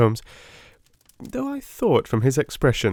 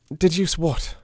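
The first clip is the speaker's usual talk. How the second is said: petulant; 6 semitones higher than usual. Acted. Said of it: "said he, petulantly".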